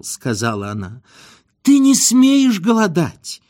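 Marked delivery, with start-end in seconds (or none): 1.6-3.4 high, emphatic, drawn-out cry; alarmed outburst. A narrator's reading. Frightened wife forbidding her husband's hunger strike, alarmed. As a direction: forbid it in a wailing panic.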